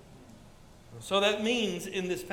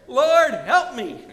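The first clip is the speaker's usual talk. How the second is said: slow loud plea to the Lord; crying out; 4 semitones higher, 10 dB louder, much slower than usual. Retold or imitated. Pastor retelling his widowed mother's prayer, loud slow plea. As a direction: cry out for help, drawn out.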